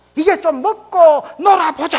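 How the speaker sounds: loud, high shout in Gyeongsang dialect.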